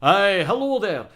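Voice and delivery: playful mock-Scottish accent. Shown as a demonstration. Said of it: "It's so Scottish".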